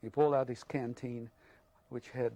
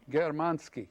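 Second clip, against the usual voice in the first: accusing shout; 4 semitones higher, 6 dB louder, slower than usual. Retold or imitated. Soldier brands him a German.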